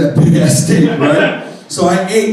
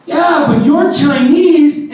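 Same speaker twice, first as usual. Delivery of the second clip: higher, slow, pointed comeback; slow pointed punchline retort; drawn-out deadpan retort; 9 semitones higher, 4 dB louder, much slower than usual. Retold or imitated. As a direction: stretch it out like the obvious answer.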